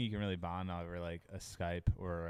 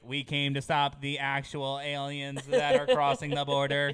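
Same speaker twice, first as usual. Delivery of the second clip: slow, slightly raised alien voice; lightly voiced alien invader; 4 semitones higher, 5 dB louder, slower than usual. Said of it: "Alien voice is good".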